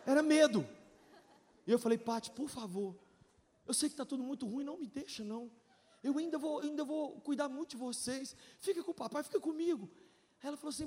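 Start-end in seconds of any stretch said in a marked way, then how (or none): 2.0-9.9 soft plea. Retold or imitated. Pleading to wife in storm.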